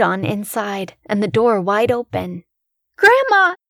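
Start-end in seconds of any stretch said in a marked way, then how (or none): 3.0-3.5 high, loud scream for grandma. Acted. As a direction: yell her name at full pitch. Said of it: "I screamed".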